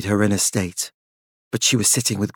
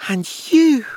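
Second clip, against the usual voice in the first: spat; 13 semitones higher than usual. A narrator's reading. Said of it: "Claudia spat".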